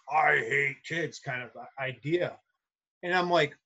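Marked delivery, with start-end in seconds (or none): 0.1-1.2 slow, weary mock of a burned-out teacher. Mimicking a burned-out teacher's tired contempt for kids. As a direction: drag it out like you're sick of kids. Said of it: "you could hear it in her voice".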